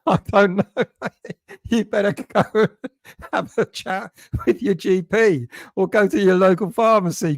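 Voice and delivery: laughing through the answer; can't keep a straight face reading it out; chuckling while giving advice. Real, not acted. Reading a joke question about a rash.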